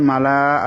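"মালা" with the last vowel stretched; written long form. Shown as a demonstration. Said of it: "মালা উচ্চারণ হবে না".

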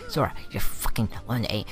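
hissed frustrated whisper at Sora. Real, not acted. Player whispering angrily at Sora.

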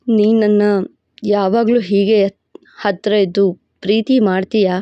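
a proud, possessive lover laying claim; possessive hero voice. Acted. Hero asks for love.

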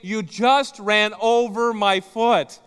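loud, slow, pained wife line; wife's pained cry. Retold or imitated. Wife whose foot was just run over, slow pained cry. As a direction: stretch it out like a hurt wife. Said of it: "hear your wife say".

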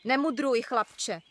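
mild mock rebuke; a hint of a cross old man; old shaman scolds the boy, mildly; snapping. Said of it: "obořil se na něho stařec".

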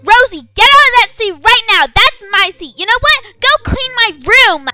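bossy yell. Acted. Bossy brat ordering sister.

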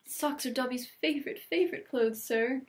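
high, delighted elf voice. Acted. Elf thrilled by the old socks, delighted high voice. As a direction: gush happily like a house-elf. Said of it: "Dobby was utterly delighted".

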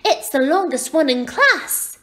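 put-on high, boastful child's voice; proud little girl. A narrator's reading. Little girl boasts about her ponytail, proud. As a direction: boast in a high girlish pitch. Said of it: "she added proudly".

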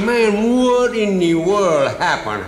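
loud and high, slowing on happened; big indignant cry; outraged disbelief. Acted. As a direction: demand answers, aghast. Outraged friend demands an explanation.

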